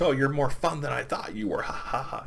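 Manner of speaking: high-pitched mock Joker taunt; mocking laughter. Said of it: "he's just laughing at her".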